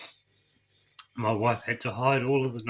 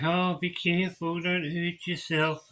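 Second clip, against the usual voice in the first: higher, fussing voice of worried people; mock worried onlooker; 7 semitones higher, slower than usual. Mocking people who tell him to be careful, high fussing voice. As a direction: parrot the fussing warning, higher. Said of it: "people are like".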